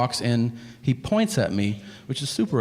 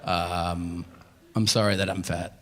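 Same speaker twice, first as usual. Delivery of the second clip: low, puffed-out speech; real breathlessness after small exertion; winded; 5 semitones lower than usual. Real, not acted. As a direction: talk while catching your breath. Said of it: "how winded I got".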